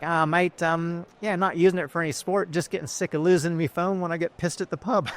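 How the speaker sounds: a modest attempt at a broad rural Aussie accent; outback Aussie accent. Customer from outside Bourke explaining what he uses it for, in a half-managed broad outback Aussie accent. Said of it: "I wish I could do the, the accent".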